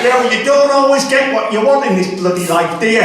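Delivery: dad's gruff saying. Retold or imitated. Comic quoting his dad's Christmas saying, a touch gruff. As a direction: play the cynical old father. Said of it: "the words of my dear old dad".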